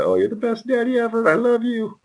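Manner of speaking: put-on high, sugary little-kid voice; butter up daddy like a small child; sweet-talking kid. Father imitating child flattering him after he caves. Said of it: "they'll throw in, like".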